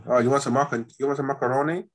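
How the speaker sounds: badly faked American accent; joky, unsteady put-on American accent; wandering American accent. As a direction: attempt an American accent and let it drift. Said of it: "I don't know where this accent's going".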